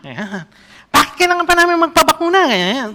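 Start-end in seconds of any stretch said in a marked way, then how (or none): 0.9-2.5 high, loud mock yell at Duterte; angry vendor shouting. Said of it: "Galit na galit talaga siya". (pasigaw na galit na tindera)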